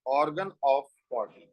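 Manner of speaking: slow repeat. Shown as a demonstration. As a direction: repeat the term slowly so it sinks in.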